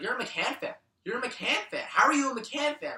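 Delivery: incredulous high-pitched dad voice; mock the dad's disbelief. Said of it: "my dad's like".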